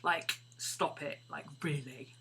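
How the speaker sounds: put-on lightly done slow Valley Girl accent; a hint of Valley Girl, drawn out and bored. Voicing the dog Maddie telling Scooby off, mild Valley Girl accent. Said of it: "in her Valley Girl accent".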